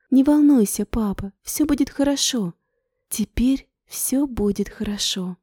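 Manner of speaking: reassuring. Acted. Daughter comforts father.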